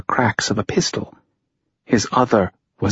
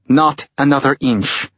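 calling out; 5 semitones higher than usual. A narrator's reading. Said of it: "called from somewhere to his right".

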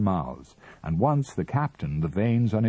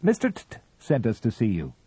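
hurried raised call, faster; shouted; 5 semitones higher, 3 dB louder, faster than usual. A narrator's reading. Captain calls up to Mister Ah Ah, hurried and raised. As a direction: call it up to the window in a rush. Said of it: "shouted the captain".

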